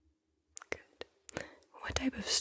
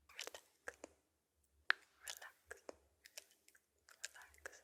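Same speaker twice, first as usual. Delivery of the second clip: barely audible, spaced-out whispered echoes; fading relaxation whisper; 21 dB quieter than usual. Real, not acted. Guide soothing the listener to relax, in a vanishing whisper. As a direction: whisper it away to almost nothing.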